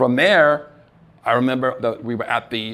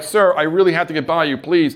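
urgent plea; 6 semitones higher, 6 dB louder than usual. Retold or imitated. Pleading with carpet cleaner.

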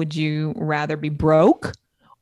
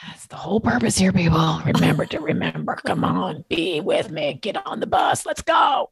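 hype rally call. Acted. Rallying listeners like a hype coach.

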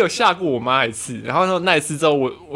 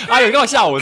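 mock friendly surprise, a touch higher; faked calm; 7 semitones higher, 4 dB louder than usual. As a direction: pretend not to mind being scared. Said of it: "表面上还是要装的是说".

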